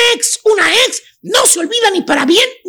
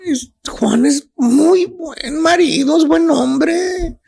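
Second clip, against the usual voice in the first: wistful chuntara; 3 semitones lower, slower than usual. Acted. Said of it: "Y dice".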